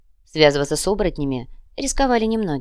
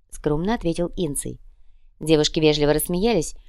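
ordinary delivery

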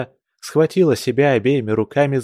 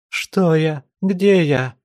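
bewildered; 6 semitones higher, much slower than usual. Acted. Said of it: "изумлёнными глазами".

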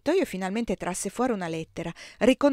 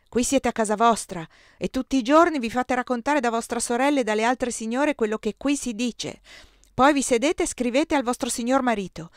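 loud, angry tirade, higher; shouting emperor; 5 semitones higher, 6 dB louder than usual. A narrator's reading. Emperor shouting at Eugenia, angry and loud. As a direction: bark the accusations at her. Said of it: "improvvisamente mi urlò".

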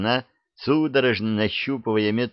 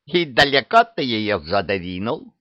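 snide. Acted. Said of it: "ехидно спросила ведьма".

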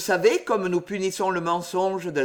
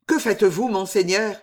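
a louder, frightened cry; trembling cry; 2 semitones higher, 4 dB louder than usual. Acted. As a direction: cry out in alarm to the master. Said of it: "s'écria Bernice en tremblant".

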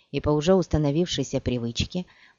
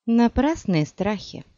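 through teeth; 7 semitones higher, slower than usual. A narrator's reading. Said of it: "процедила она".

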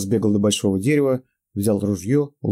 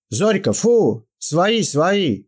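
high, loud call to the dog; shouting at the dog; 9 semitones higher, 4 dB louder, much slower than usual. Acted. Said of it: "покрикивая на собаку".

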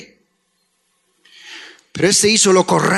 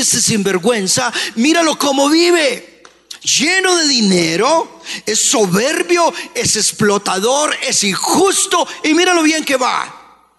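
indignant complaint; 3 semitones higher than usual. Acted. Preacher voices a believer envying the wicked, indignant. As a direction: complain about the scoundrel, pitch mostly raised.

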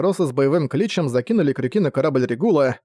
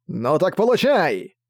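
attacking cry; 2 semitones higher, slower than usual. Acted. Strikes brother in sword fight.

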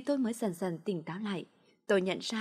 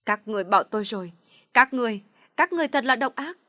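bitter shout; 2 semitones higher, 7 dB louder than usual. A narrator's reading. Girl smashing things at home, shouting bitterly. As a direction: lash out at the empty house. Girl raging alone in empty house.

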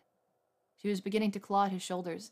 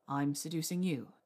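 firm reminder; 3 semitones lower than usual. A narrator's reading. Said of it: "he reminded her firmly".

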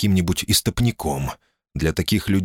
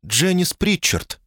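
much higher, strained and slow; high tense voice; 10 semitones higher than usual. A narrator's reading. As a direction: pitch up high and tight. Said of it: "голос у неё был высокий и напряжённый".

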